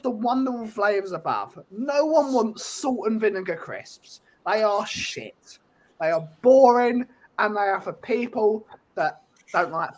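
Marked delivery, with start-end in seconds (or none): 4.5-5.6 slow disgust. Real, not acted. Crisp rant.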